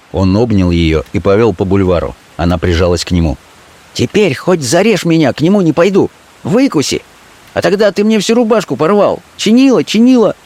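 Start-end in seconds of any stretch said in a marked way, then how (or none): 3.9-10.4 high pleading woman's voice; high, half-pleading; a street girl fearing for her man; Fenka. Acted. Fenka's voice held.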